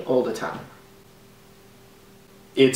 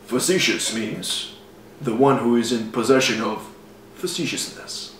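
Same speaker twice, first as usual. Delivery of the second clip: announcer voice; 3 semitones lower, 3 dB quieter than usual. Acted. Defining facetious for the audience, mild announcer voice. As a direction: read a mock definition like an announcer. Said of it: "In my deep announcer voice".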